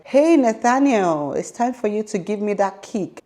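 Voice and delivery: lightly acted sing-out to baby; coaxing call. Retold calling to her unborn baby.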